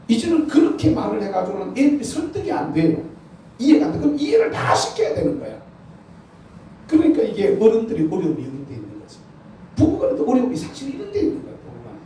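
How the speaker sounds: high, loud preaching climax; full-force preaching. Acted. The pastor rousing the congregation to a blessing, preaching loud.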